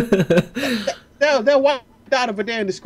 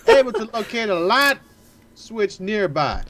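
put-on country-accented narration; Southern accent; 4 dB louder, much slower than usual. Player reads the game text hunting for light, Southern accent. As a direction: read it like a Southern storyteller. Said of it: "We're going southern accent already".

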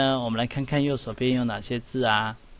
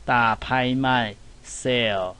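sale said slowly, long vowel drawn out; slow demo; slower than usual. Shown as a demonstration. (慢慢示范sale)

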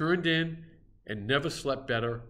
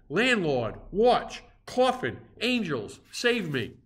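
higher, louder frantic calls for rescue; shouted plea; 6 semitones higher, 4 dB louder, slower than usual. A narrator's reading. Frightened narrator calls everyone to save him, frantic shouting. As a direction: cry out each name in panic. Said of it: "shouted I".

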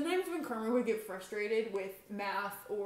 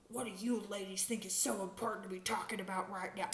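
mock teacher voice; 3 semitones lower, 7 dB quieter than usual. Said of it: "He actually talks like that".

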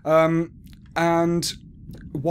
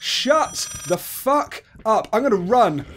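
high, stretched panicked swearing; high, rising alarm; alarmed outburst; 8 semitones higher, 5 dB louder, slower than usual. Real, not acted. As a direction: curse at the scare, then bolt. Startled by game, fleeing.

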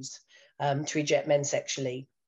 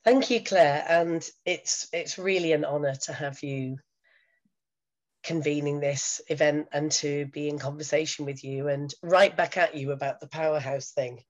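croaky voice. Real, not acted. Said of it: "my new sexy croaky voice".

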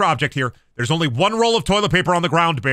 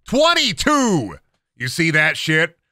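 drawn-out gloat; 3 semitones higher, slower than usual. Real, not acted. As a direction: savor each word of the win. Gloating over the score.

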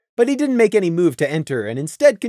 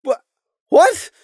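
high, loud, stammered question; stunned disbelief; 12 semitones higher, 5 dB louder than usual. A narrator's reading. Lily stunned by Saffron's secret, startled stammer. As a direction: blurt it out in shock.

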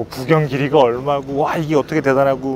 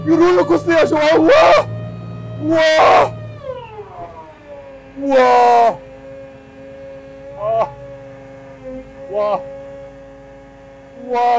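thrilled screaming; 11 semitones higher, much slower than usual. Real, not acted. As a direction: scream with delight on the climb. Steep climb like rollercoaster.

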